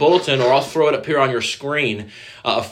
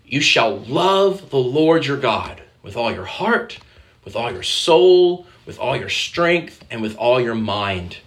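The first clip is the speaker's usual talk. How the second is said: solemn recitation; 2 semitones lower, slower than usual. Shown as a demonstration. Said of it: "He says what?".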